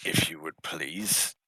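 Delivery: whispered plea, no voice; hushed request to put him down. Acted. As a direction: breathe it to the big ogre. Marine quietly asks ogre.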